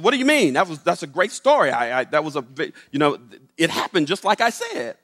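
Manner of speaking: mildly uptight comeback; a little tight. Retold or imitated. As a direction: bristle a little, stumbling over your words. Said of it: "he's got a little tight".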